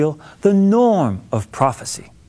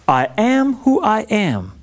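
solemn God voice; 3 semitones higher than usual. Acted. God's solemn self-naming.

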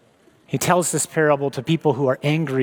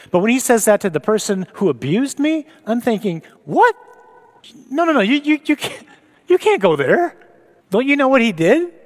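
high, loud, rising alarm: no, no, you can't; outraged protest; 8 semitones higher, 4 dB louder than usual. Acted. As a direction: panic at mercy for an abuser, pitched high. Acted outraged inner protest.

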